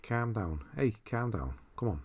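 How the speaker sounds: brief mock Scouse accent; Scouse impression. Joking about Scouse being not English, mock Scouse accent. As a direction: put on a light Liverpool Scouse. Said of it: "I'm not gonna do Scouse".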